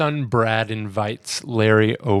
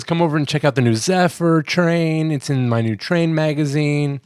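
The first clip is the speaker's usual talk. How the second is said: put-on excited kid inviting his friend over; eager boy; 5 semitones higher than usual. Son inviting his friend over, eager and higher. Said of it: "so he says".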